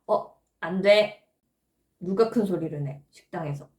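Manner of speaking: mock scold the child sharply. Shown as a demonstration. Parent scolding a noisy toddler in a restaurant, stern. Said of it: "막 혼낼 상황".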